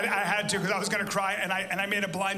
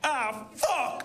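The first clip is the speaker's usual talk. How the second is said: higher, strained curse in place of crying; mock holding back tears; 4 semitones higher than usual. Comedian imitating buddy whose dog died, mock choked-back crying. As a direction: imitate swallowing the grief. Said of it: "instead of crying".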